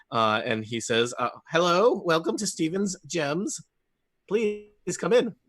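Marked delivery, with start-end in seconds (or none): 1.5-5.3 cheerful gnome shopkeeper. Acted. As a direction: welcome the customers like a chirpy tiny merchant. GM voices gnome merchant.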